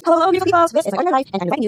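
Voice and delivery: high, loud catchphrase hello; excited greeting. Acted. Vlogger redoing her intro greeting, high and loud. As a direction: belt out the signature welcome.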